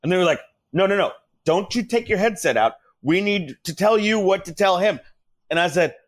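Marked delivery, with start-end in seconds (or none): 0.7-5.0 higher-pitched imitation of insistent producers; mildly raised, protesting voice; mock yelling. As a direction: imitate a boss urgently objecting. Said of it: "don't stop yelling at me".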